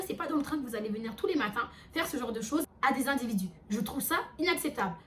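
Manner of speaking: emphatic, insistent lecture; retold firm telling-off. Narrator lectures fellow passengers about sharing the train, firm. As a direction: re-enact putting someone firmly in their place. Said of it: "Je lui ai parlé vraiment comme ça".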